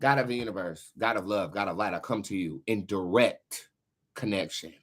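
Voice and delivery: low, measured prayer voice. Acted. Leading a prayer for Maui's victims, low and earnest. Prays for Maui.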